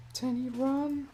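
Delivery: high panicked cry to flee; panicked shout. Real, not acted. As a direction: yell a frantic warning. Pet attacked, calls to it.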